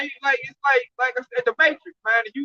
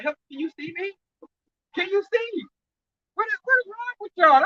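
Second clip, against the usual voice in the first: pitched-up, exasperated mock plea; mock exasperation; 6 semitones higher than usual. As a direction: rise into a baffled, scolding question. Mock plea from under eyelashes.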